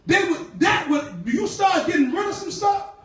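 calls the church to denounce it; preaching at full force. Acted.

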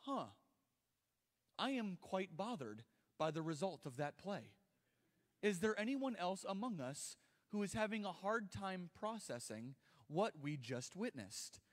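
a prim, overly composed sports fan; mock rational fan. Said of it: "The men were not standing there going".

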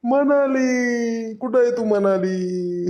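slow, tearful call for the lost wife; tearful crying. Acted. Brother searching the river, weeping for Manali, slow tearful call. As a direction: cry out her name through tears. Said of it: "रडू नको पमू".

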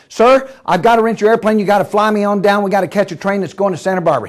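rushed, breathless-paced request; urgent plea. Acted. Man needing a plane to its owner, urgent rush. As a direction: blurt it out in one fast run.

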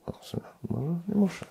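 soft, quick aside to oneself; hushed realisation, half to oneself; quiet musing. Pretend. Imagined listener answering inwardly, soft and quick.

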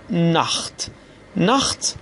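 ناخت with a throaty خ before the t. Shown as a demonstration. Teacher gives learners the first example word, ch as kh. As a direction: say ناخت as "nakht", each take set apart.

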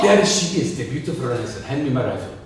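hint of an African king; African accent. King spotting the rhinoceros, African accent. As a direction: lightly put on an African accent.

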